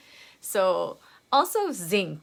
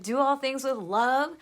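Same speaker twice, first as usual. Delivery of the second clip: higher, sing-song saintly "Do all things with love"; mock serene motto; 5 semitones higher than usual. Mocking the coaster motto while someone yells at you, sing-song. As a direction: recite the motto as if it could calm anyone down. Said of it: "you're like".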